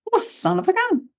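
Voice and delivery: lightly voiced Aussie woman startled by his accent; mock Aussie woman. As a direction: play the surprised local woman. Aussie stranger hears his accent.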